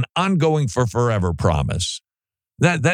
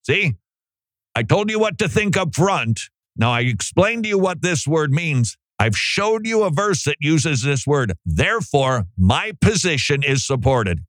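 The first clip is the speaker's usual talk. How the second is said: higher, self-satisfied mock lecturer; lightly voiced smug scholar; mocking smug teacher; 5 semitones higher than usual. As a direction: ham up a smug know-it-all proving his point. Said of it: "to say".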